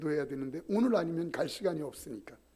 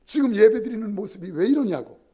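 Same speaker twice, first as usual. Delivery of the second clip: loud, raised scolding of the congregation; angry preacher; 5 semitones higher, 9 dB louder than usual. Retold or imitated. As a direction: scold them for the ringing phone. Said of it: "화를 내면서". (전화벨에 화난 부흥 목사, 큰 소리로 꾸짖듯)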